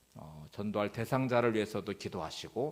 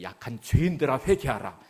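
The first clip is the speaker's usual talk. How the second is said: louder preacher calling sinners to repent; loud mock pulpit rebuke; preacher's loud rebuke; 5 dB louder than usual. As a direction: boom it out like a revival preacher. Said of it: "막 큰 소리로 막 죄인이라고 정죄를".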